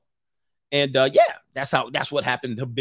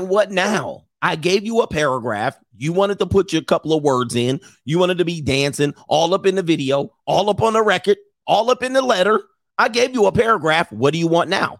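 mock exasperated rant; 5 semitones higher than usual. Bill voiced ranting, rising.

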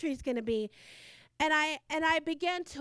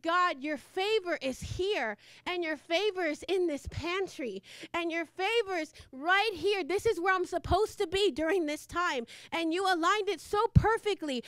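retold prayer. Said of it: "And I said".

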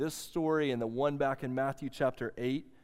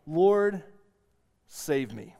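crying out; 5 dB louder, much slower than usual. Retold or imitated. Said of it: "He cries out".

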